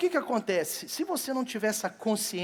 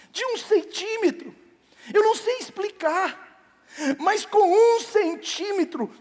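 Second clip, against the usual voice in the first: much higher, voice lifted by emotion; moved excitement; 10 semitones higher, 3 dB louder than usual. Real, not acted. Father recalling his son's first ultrasound, higher with emotion. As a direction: let the wonder break through.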